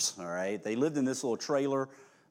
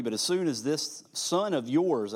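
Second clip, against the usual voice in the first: contempt; 5 semitones higher, 6 dB louder than usual. Acted. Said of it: "can you just hear the contempt in his voice".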